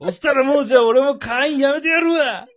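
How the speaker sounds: hammed-up crying shout; mock tearful rant. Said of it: "acted quitting rant".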